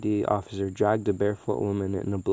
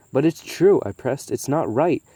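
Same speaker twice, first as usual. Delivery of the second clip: raised, pleading daughter; insistent protest; 5 semitones higher, 4 dB louder than usual. Acted. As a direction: push back hard, a touch louder. Lena argues with her father.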